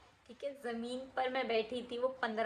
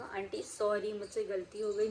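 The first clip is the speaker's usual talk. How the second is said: softly begging forgiveness; pleading apology; 2 semitones lower, 3 dB quieter than usual. Retold or imitated. Schoolgirl to the angry mother, softly pleading. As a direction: plead with the aunt, voice dropping. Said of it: "इतना गिड़गिड़ा रही थी".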